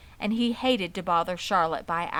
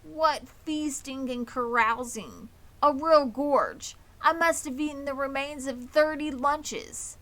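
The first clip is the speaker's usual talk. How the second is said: boastful rat; 5 semitones higher, 3 dB louder than usual. Acted. Templeton boasting of his feast.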